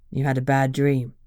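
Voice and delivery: low, gentle reassurance; soothing. A narrator's reading. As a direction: ease someone out of a nightmare. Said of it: "Emery soothed".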